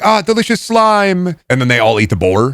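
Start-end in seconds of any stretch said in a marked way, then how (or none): 0.0-1.4 light, slow, dreamy Lisa voice, barely changed; Lisa Simpson voice. Retold or imitated. Mimicking Lisa Simpson, mild slow relish. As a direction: savour the words slowly like a cartoon kid. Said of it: "Lisa Simpson be like".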